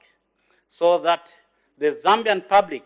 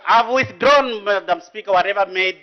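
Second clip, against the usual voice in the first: raised protest; 4 semitones higher, 5 dB louder than usual. Real, not acted. MP protests to Speaker.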